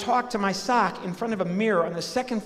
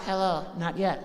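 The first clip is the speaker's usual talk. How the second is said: sock puppet voice. Acted. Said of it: "And my sock".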